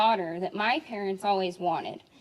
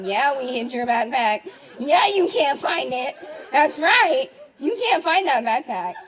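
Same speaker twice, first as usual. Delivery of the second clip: louder mocking gloat; teasing taunt; 7 dB louder than usual. Teens taunting a classmate over the hidden backpack, loud and gloating. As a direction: rub it in like a cocky teen. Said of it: "We were like".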